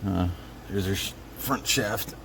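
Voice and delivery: talking while lying under a car; strained, reaching up from under the car. Real, not acted. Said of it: "so now I'm under the car".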